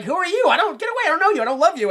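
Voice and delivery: high, loud mock tantrum; upset kid. Kid rejects the absent mom, high mock tantrum. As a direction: push her away in a loud childish protest. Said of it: "the kid's like".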